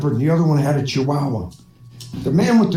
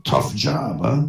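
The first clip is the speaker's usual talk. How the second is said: low bartender voice; 6 semitones lower, slower than usual. Acted. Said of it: "Bartender says".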